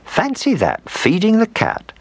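put-on high, amazed old lady; delighted old woman. A narrator's reading. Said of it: "said Old Mother Hubbard".

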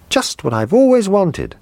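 put-on high, delighted child's cry; a little boy thrilled by his present; excited boy. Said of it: "he cried".

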